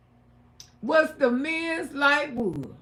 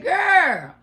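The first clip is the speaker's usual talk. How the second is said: high, loud, laugh-cry shout; 5 semitones higher, 5 dB louder than usual. Retold or imitated. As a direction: shout the confession through laughter. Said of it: "I said".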